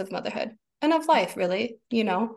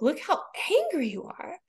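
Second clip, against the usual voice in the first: amazed wonder; 2 semitones higher than usual. Retold or imitated. Mother marveling aloud at her furious child, amazed. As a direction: savor the wonder of it.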